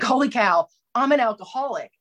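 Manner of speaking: a lightly voiced thrilled epiphany; excited realization. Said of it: "I was so excited".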